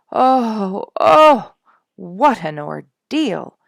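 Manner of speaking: high, loud, drawn-out wail; anguished groan. A narrator's reading. Father groaning over the skunk ordeal, loud and anguished.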